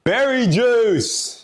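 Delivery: high, drawn-out squeal; squealed order. Acted. Customer squealing the drink order at the waiter, drawn-out and high. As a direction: squeal the order like an excited kid.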